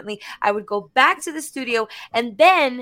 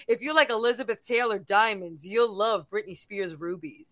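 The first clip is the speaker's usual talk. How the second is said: a hint of a cheesy ad read; lightly voiced ad; 3 dB quieter than usual. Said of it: "Or it was like".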